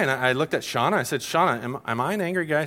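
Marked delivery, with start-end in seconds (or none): 1.2-2.6 retold incredulous question, swooping pitch; mock-bewildered questioning; acting out disbelief. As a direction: replay a puzzled appeal to a wife. Retells asking wife for confirmation.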